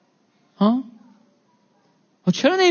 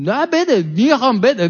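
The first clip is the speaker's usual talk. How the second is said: pushy demand; 5 semitones higher, 3 dB louder than usual. Acted. Acted pushy borrower demands money.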